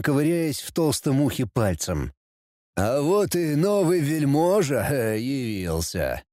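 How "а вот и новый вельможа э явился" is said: smirk at the newcomer; sneering. Acted. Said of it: "Ехидно ухмыльнулся Люцифер".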